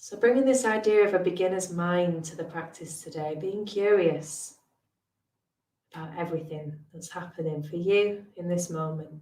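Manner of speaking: calm, unhurried meditation voice with long pauses; guided meditation. Real, not acted. Meditation teacher settling listeners into today's practice, guided meditation. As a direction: ease listeners gently into stillness, leaving space between phrases.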